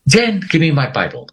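urgent shout for the Bible; calling out sharply to his wife for his Bible; retold scream. Husband shouting to wife to bring his Bible, urgent shout. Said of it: "I screamed".

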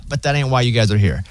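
ordinary talk

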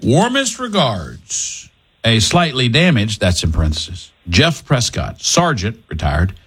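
slow dramatic radio read of the sign-off; slow dramatic letter read. Acted. Second take of the letter for the show, slowed and dramatic. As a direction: savor each word of the sign-off. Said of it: "we'll do it one more time".

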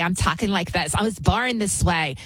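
mock effeminate voice with affected vowels; effeminate man impression. Host mocks people blaming how they were born, affected effeminate voice. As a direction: lightly imitate an effeminate man, mockingly. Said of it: "choosing to talk like an effeminate".

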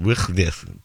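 "Wychnich" with throaty Welsh ch sounds; mock Welsh pronunciation. Shown as a demonstration. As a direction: say "Wychnich" as guttural mock Welsh, rasping each ch. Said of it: "it's pronounced".

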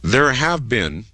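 slow, weighty opening; measured, portentous announcement; serious. Real, not acted. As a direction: turn grave and deliberate. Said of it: "as he gets serious again for a moment".

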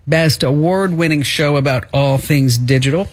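radio show intro voice; announcer. Acted.

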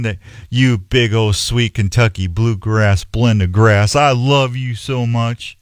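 lightly voiced dad cooing to his lawn, slowed; a hint of a dad sweet-talking his grass, unhurried; doting dad to lawn.

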